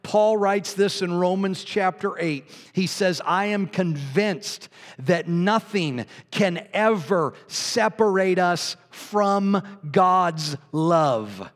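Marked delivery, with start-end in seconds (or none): 3.2-11.5 slow, weighty recitation of scripture; scripture reading. Acted. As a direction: let each phrase land slowly. Reading Romans aloud.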